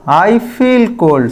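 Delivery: very slow, deliberate model sentence; slow correct example. Shown as a demonstration. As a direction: say it word by word for the class. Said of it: "ये रहा right". (धीरे-धीरे सही उदाहरण)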